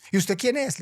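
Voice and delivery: high, startled little duck; squeaky duck voice. Acted. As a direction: ask it like a small nervous duck. Pato pregunta, voz aguda. (voz aguda de patico asustado)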